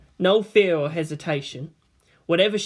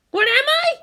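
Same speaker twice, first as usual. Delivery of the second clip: much higher, sharp angry retort; snarled; 5 dB louder, faster than usual. A narrator's reading. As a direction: throw the question back with scorn. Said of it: "she snarled out".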